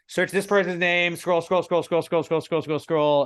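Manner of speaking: high, slow, sing-song scroll scroll; mock search routine. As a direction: mimic yourself scrolling endlessly. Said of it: "I'm like".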